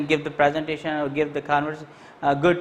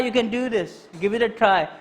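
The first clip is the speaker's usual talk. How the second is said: encouraging push; 4 semitones higher than usual. Shown as a demonstration. Teacher urging a shy student onto the stage, encouragingly. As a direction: cheer a nervous student on. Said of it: "So I can say".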